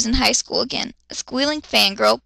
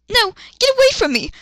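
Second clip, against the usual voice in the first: mild mock yell; 10 semitones higher, 4 dB louder, faster than usual. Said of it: "she yelled".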